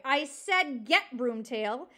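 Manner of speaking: slow, forceful order; crying out. Acted. Porcupine's last warning to the fox, crying out. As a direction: drag out the command firmly. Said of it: "Poppy heard Aerith cry".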